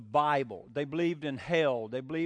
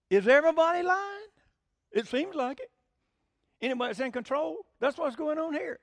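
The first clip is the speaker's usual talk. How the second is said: much higher, louder exasperated cry; cynical outburst; 9 semitones higher, 4 dB louder than usual. Retold or imitated. Preacher voicing the cynic about politicians, exasperated and loud. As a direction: throw up your hands at the liars. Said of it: "it's easy to say".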